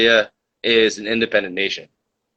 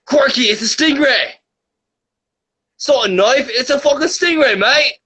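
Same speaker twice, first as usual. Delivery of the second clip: put-on Australian accent; 11 semitones higher than usual. Streamer acting out Steve Irwin in Australian accent. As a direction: shout it like an Aussie croc hunter.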